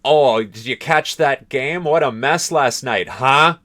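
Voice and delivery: American tag question. Retold or imitated. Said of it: "like how many in America might say".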